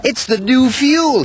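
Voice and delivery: crying out. Acted. Quarry manager finding the bad fuel, crying out. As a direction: call out the cause in alarm. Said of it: "he cried".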